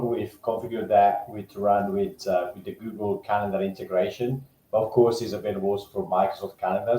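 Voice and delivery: echoey, like speaking from a cave; boomy room echo on the voice. Real, not acted. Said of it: "it sounds like you're in a cave".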